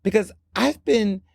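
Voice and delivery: breezy innocence. Retold or imitated. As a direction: act like nothing is wrong. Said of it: "She's like".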